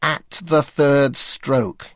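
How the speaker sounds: high, slow, nasal intoning; nasal David Frost voice. Retold or imitated. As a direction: intone it gravely through the nose. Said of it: "he intoned in his intense nasal voice".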